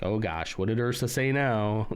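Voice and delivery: mock exasperated, as if fed up with someone; a touch of weary dread. Shown as a demonstration. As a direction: put mild stink on it, like "not this now". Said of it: "I didn't mean it like that".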